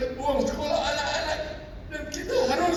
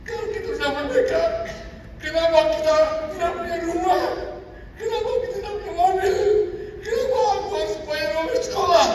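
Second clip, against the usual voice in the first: put-on pleading child; 5 semitones higher than usual. Grandchild presses questions, voice climbing.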